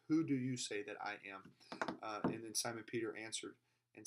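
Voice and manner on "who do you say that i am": "Who do you say that I am?" asked firmly, leaning on "Who"; deliberate, pointed emphasis on "Who"; emphatic question. Retold or imitated. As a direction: press the question from "Who" onward. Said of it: "this, this very emphatic".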